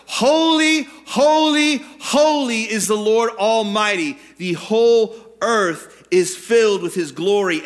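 high, loud calls of praise; calling out. Acted. Seraphim calling to one another in Isaiah's vision, loud calling. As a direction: ring out each "holy" long and loud. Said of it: "they were calling to one another".

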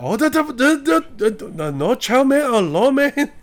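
very high, loud mock Asian accent; exaggerated Asian accent of a drive-thru worker; squealed-up caricature of an Asian accent; imitated Asian accent. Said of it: "it's literally me doing the Asian accent".

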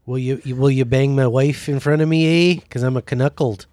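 mock Canadian accent, asking politely; Canadian accent with a tacked-on eh; light Canadian accent, rising on the eh. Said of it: "that's a great, uh, Justin Trudeau accent".

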